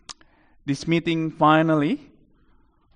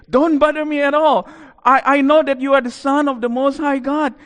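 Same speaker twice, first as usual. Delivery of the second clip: loud, high demon shouting back; high, forceful demonic shout; demon's voice; 11 semitones higher, 7 dB louder than usual. Acted. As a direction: protest loudly as a cornered demon. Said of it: "What the demon says is this".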